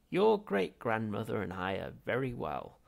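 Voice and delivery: put-on loud, dry old man's rasp. Ghost rebuking Zaphod, loud rasp. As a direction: rasp it like a crusty ancestor. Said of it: "rasped Zaphod Beeblebrox the fourth".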